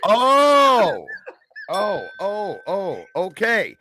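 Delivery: high drawn-out oh as it clicks; dawning realization. Real, not acted. Host catching the veteran's crude joke, surprised. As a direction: slowly realize what he means.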